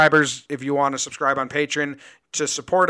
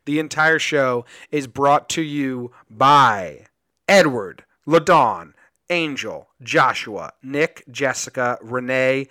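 announcer; 5 dB louder, slower than usual. Acted. Reads out the sponsor names.

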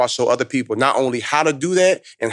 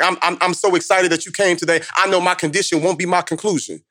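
higher-pitched imitation of an excited schoolgirl; grateful girl; 5 semitones higher than usual. Tearful student thanks the visiting speaker, higher and earnest. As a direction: lift the pitch for a girl declaring new hope.

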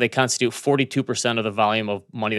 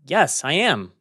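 higher pitch with swooping emphasis; retold retort, hammed-up hurt; mock-offended comeback; 4 semitones higher than usual. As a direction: play-act being stung by a store clerk's remark. Acted indignant reply to store clerk.

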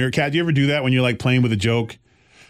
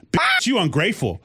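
sassy retort, pitched up; a kid's sassy comeback, higher; daughter's sassy quip; 6 semitones higher than usual. Retold or imitated. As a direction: snap it like a sassy kid. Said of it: "and I hear".

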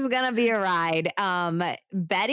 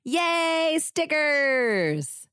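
high, bouncy little cheer; playful cheer; 8 semitones higher, much slower than usual. Real, not acted. Host cheering the sticker giveaway, playful high cheer. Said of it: "mock cheer about stickers".

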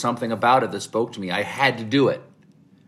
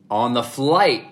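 ordinary delivery

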